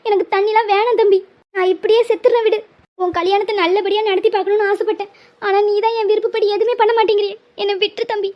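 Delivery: weeping mother refusing water; crying. Acted. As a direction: plead through tears, giving up. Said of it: "அழுகையை நிப்பாட்டுங்க". (அழுகையுடன் தண்ணீரை மறுக்கும் அம்மா)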